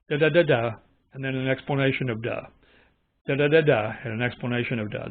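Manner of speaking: mock jerky cadence of a cluttered translation; jerky mock reading. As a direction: imitate a stop-start text with asides. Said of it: "it's jerky".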